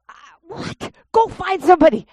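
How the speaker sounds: high, then a loud demand; incredulous, then shout the order; retold alarm. To husband who sees nobody, high and then loud.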